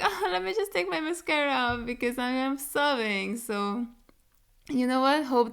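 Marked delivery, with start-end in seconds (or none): 0.0-3.4 mock self at video end. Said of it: "where I'm just like".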